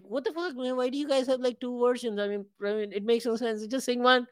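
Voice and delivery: exasperated. Retold or imitated. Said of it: "I always tell her, like".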